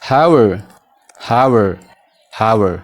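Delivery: "How are" repeated as one blended "how-er"; linking drill. Shown as a demonstration. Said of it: "pronunciation isaa jechuudha". (shaakala, A keessaa baasuun)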